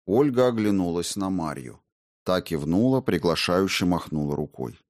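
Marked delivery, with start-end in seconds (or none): none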